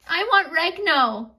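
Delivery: put-on crying toddler. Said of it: "because Ginger was crying".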